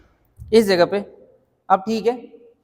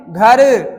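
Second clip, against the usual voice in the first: stressed example; 7 dB louder than usual. Shown as a demonstration. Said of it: "बताओ कितनी मात्रा का समय".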